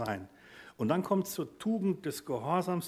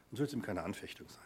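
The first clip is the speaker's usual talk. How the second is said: whisper; 4 semitones lower, 8 dB quieter, faster than usual. Real, not acted. Preacher drops to a hush.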